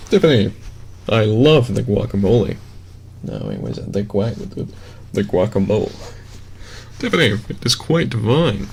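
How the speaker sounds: mock basic white guy voice; over-proper white dude parody. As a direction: do a stereotypical white dude, lightly put on. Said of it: "the basic white dude voice".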